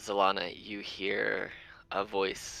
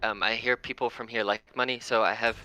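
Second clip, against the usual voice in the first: rabbit voice; 4 semitones higher, faster than usual. Acted. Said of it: "he goes".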